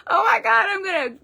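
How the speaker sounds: struck by the reading; real astonishment, pitched high; overwhelmed gasp. Real, not acted. Overwhelmed by card, nearly tears.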